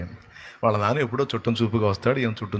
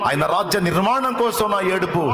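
fervent preaching; 6 semitones higher than usual. Acted. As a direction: build each line higher with passion. Preaching builds in fervour.

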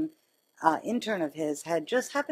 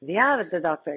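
badly faked Italian accent; attempted Italian accent; 4 dB louder than usual. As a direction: imitate a colleague's Italian accent, not very successfully. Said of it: "with her fabulous Italian accent".

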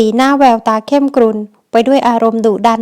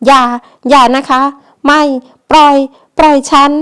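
woman pleading with the man to let her go, in a mildly louder panicked voice; desperate plea; 3 semitones higher, 3 dB louder than usual. Acted. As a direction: push her plea up as she fights to break free. Woman struggles, pleads to be released.

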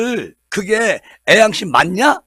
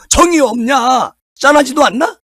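indignant shout; 5 semitones higher, 4 dB louder than usual. Acted. Indignant rhetorical questions to voters.

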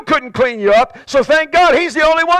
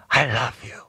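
much lower and softer, gentle; soft whisper; 12 semitones lower, 7 dB quieter than usual. Retold or imitated. God whispering to the believer, soft and low. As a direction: murmur it tenderly like God.

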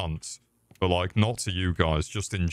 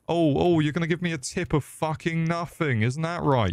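high mocking rant; 9 semitones higher than usual. Ranting at customer, high pitched.

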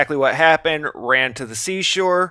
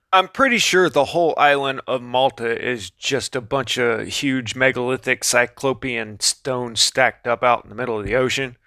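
sarcastic. Acted. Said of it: "Okay, I'm being sarcastic".

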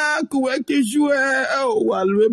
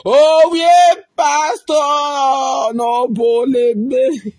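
loud cry out; 2 semitones higher, 4 dB louder, much slower than usual. Real, not acted. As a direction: call out to the pastor, half laughing. Wife cries out to the pastor.

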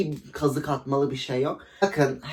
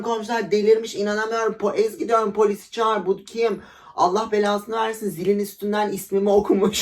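higher, hammed-up alarm; fake alarmed call; 5 semitones higher than usual. Calling to her friend and neighbours, hammed-up alarm. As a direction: pretend a stranger is harassing you. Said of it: "Aşağıya doğru bağırıyorum".

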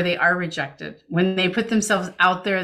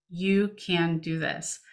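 reassuring; 4 dB quieter, much slower than usual. Shown as a demonstration. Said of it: "you're reminding them".

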